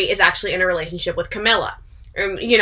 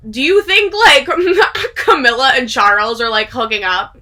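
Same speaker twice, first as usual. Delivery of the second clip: laughing; 4 semitones higher, 3 dB louder than usual. Real, not acted. The speaker's shocked question, laughing.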